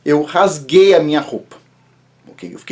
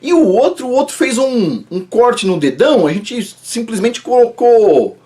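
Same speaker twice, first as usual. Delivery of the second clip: imitating the doctor; 5 semitones higher than usual. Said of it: "E o médico falou assim".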